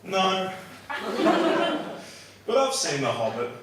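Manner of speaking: looks him dead in the eye, flatly sure; proud mock confidence with a squeaky laugh; confident. Fan mimicking a smug Australia lover, confidently. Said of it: "really confidently".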